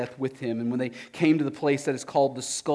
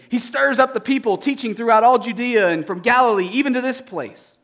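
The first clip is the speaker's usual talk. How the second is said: insistent crowd; 11 semitones higher, 8 dB louder than usual. Acted.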